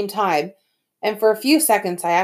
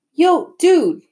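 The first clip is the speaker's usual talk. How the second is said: put-on cool kid voice; 10 semitones higher, 7 dB louder than usual. Miles calls out behind them.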